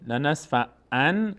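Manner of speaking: لنصفعن very slowly, ending on a clear n; as written. Shown as a demonstration. Teacher reads the written word, لنصفعن slow with clear n. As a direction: stretch لنصفعن to a plain n.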